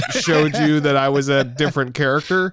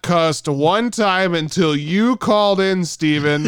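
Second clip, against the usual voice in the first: yelling radio host; 2 semitones higher than usual. Pretend. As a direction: rant at the caller. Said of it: "all I did was start yelling".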